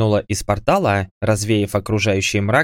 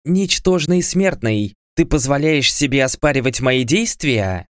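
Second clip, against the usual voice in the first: peremptory goddess; 4 semitones higher than usual. Acted. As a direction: look down on a mere mortal. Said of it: "выдала безапелляционное".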